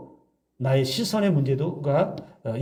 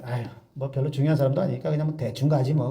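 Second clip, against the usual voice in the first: careless shrug; faster than usual. Pretend. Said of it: "결혼식에 가는데".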